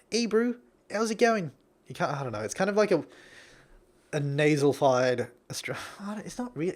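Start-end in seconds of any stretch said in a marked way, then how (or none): 0.1-1.5 lightly mocked New Zealand greeting, higher; a hint of a Kiwi bro greeting; New Zealand accent. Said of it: "What do you say?".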